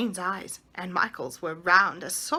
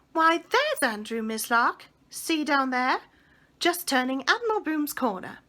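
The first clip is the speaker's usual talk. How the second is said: excited; 5 semitones higher, 4 dB louder than usual. Acted. Boy spots the lost dog.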